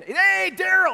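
high, bright call of hello from the counter; friendly greeting. Retold or imitated. Diner owner greets regular trucker Daryl, called out high. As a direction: greet an old regular warmly, loud and high.

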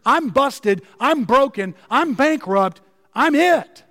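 insistent, each admission punched separately; emphatic confession. Acted. Worst of sinners crying out to God, emphatic confession. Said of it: "It is emphatic here".

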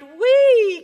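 high joyful squeal; frog cries wee. Acted. Frog shows off his dance to the pond, squealing. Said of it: "frog cried".

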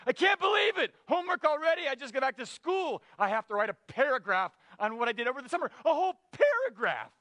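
put-on high, whining little boy complaining about homework; whiny kid Calvin. Preacher voicing Calvin whining to Hobbes, high kid whine. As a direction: pitch way up like a kid outraged at homework. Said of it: "as he says to Hobbes".

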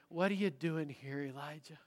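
softened question, fading on the name; quiet voice of grace. Acted. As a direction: ask gently, letting the name fall nearly silent. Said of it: "the quiet voice of grace".

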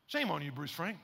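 lightly imitated teacher's scolding; tut-tut like a teacher shaming a pupil; scolding kindergarten teacher. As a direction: repeat the mock reproach with a drop each time. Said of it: "My kindergarten teacher would say that".

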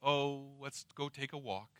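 soft, easy-going invitation; casual suggestion. Acted. Father's voice as it was not, a mild casual suggestion. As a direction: toss it off mildly. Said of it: "Not a voice of".

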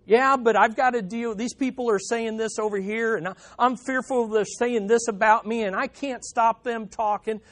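mildly acted anxious complainer; fretful objection. Voicing a worried believer's objection.

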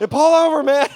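loud high shout; Jesus shouting at the driver to stop; shouted command. Retold or imitated. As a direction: shout the order at him.

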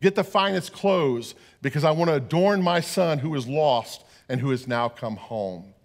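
retold father's joyful call. Father calling to his son, mock joyful shout. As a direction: call to the servants like a glad father. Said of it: "he yells to the older son".

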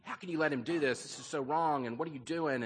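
mildly voiced outrage at the chief; a touch of furious disbelief; furious protest. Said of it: "the American guy is just furious".

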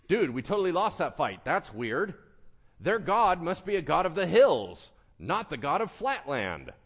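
loud, high-pitched mock bafflement; hammed-up dude reasoning at full volume; baffled Syrians. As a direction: play a defeated soldier loudly puzzling it out. Acting out baffled losing Syrians.

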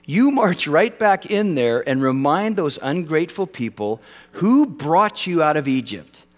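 mock-stern divine rebuke; lightly voiced scolding God; half-playful thundering God; imagined indignant God. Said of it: "I would have said this".

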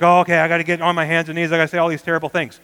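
rattled off fast in a put-on voice; mock dutiful penitent. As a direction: rush through it like a reluctant chore. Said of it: "some people think when they hear".

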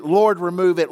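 loud, pleading Lord, remove it; pleading cry. Retold or imitated. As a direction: cry it out to God. Paul's repeated plea.

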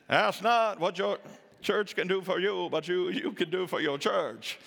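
a light, badly faked Northeastern accent; JFK-style Northeastern accent, hammed up and off. To the congregation, joking like John Kennedy, in a bad Northeastern accent. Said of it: "it was a horrible Northeastern accent".

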